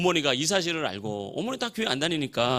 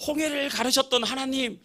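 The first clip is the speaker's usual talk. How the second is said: fervent, high-pitched loud praying voice; very loud prayer; 6 semitones higher, 5 dB louder than usual. Retold or imitated. Young man praying at dawn for his tuition, very loud and fervent. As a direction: cry out to God with full conviction. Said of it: "엄청 큰 소리로".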